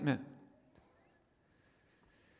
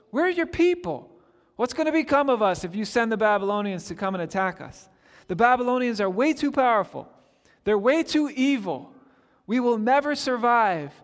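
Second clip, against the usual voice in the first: pleading complaint; 4 semitones higher than usual. Retold or imitated. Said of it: "Habakkuk has been complaining to God".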